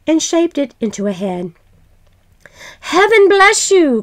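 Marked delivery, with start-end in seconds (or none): 2.8-4.0 high, loud friendly blessing; cried out. A narrator's reading. Passerby calling a blessing to the couple, loud. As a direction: call out a blessing to strangers. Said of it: "cried a passerby".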